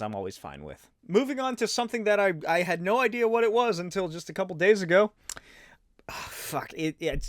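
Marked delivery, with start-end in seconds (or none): none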